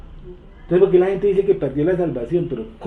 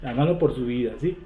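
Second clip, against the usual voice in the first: mock pleading Jesus; 6 semitones lower, 7 dB quieter than usual. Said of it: "como si Jesucristo estuviera ahí".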